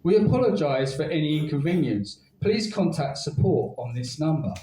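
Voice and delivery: lightly voiced robot greeting; flat mechanical robot voice. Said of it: "A robotic voice said".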